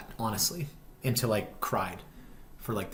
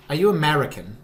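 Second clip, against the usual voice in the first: imitated question in mock British accent; louder, higher put-on British accent; fake British accent; 4 semitones higher, 6 dB louder than usual. Server asks the tourist, in a fake British accent. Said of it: "should I keep doing the accent".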